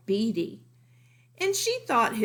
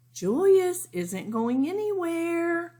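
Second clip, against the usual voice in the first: high, louder motherly firmness; Lily's mother, firm; 10 semitones higher, 4 dB louder than usual. A narrator's reading. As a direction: settle it once and for all, mom's voice. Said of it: "said Lily's mother".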